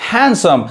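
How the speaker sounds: हैंडसम with no d, "han-sum"; हैंडसम as "HAN-sum", d left out; silent D. Shown as a demonstration. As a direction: say हैंडसम dropping the d. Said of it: "तो ये क्या पढ़ाएगा".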